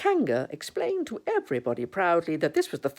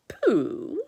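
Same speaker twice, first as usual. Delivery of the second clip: raised, questioning call; Christopher Robin; 6 semitones higher, 4 dB louder than usual. Acted. Christopher Robin looking at Pooh, raised questioning call. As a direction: lightly call the name, pitched up.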